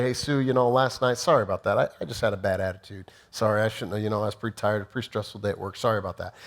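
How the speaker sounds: a husband brushing off his wife with a quick sorry; offhand excuse apology. Retold or imitated. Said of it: "is just to say".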